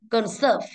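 conSERVE, SERVE carrying the weight; stress on second syllable. Shown as a demonstration. Teacher correcting the class, SERVE stressed in Conserve. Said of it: "Âm hai và từ serve".

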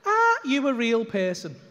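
slow, drawn-out question; incredulous. Retold or imitated. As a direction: spell it out slowly in disbelief. Retells his disbelieving question.

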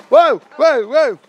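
loud, high startled whoa; surprised whoa. Real, not acted. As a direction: caught off guard. Kids burst in.

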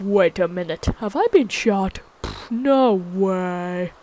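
drawn-out, incredulous zombie reaction; slow, stretched mock disbelief; zombie realizing she's shot. Zombie slowly realizes she has been shot, mock disbelief. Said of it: "she's like".

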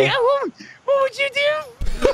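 laughing tease. Real, not acted. Laughing teasing question.

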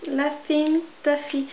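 slow English with a French accent; real French-accented English, drawn out; bad English accent. Real, not acted. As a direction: read the English name slowly in a heavy French accent. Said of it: "mon accent anglais est pourri".

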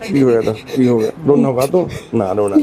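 low, coaxing reassurance; real low-pitched comforting; tender consoling. Real, not acted. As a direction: soothe someone in tears. Consoling a crying old man.

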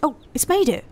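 high, loud delighted shout; real triumphant whoop; excited cheer. Real, not acted. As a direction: cheer as the car finally makes it. Coaster finally clears the ramp.

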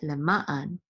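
"le ma an" with the accent on "ma"; second-syllable stress. Shown as a demonstration. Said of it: "That's how you pronounce it".

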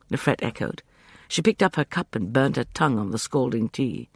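ordinary delivery, nothing marked

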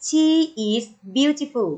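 slow, careful teacher reading; slow model reading. Shown as a demonstration. Teacher modelling the phrase slowly for pupils. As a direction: stretch it out for the class. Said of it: "Say after me".

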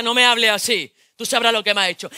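loud angry snap; angry retort. Acted. Quarrelling couple in the street, loud. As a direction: fire back at him.

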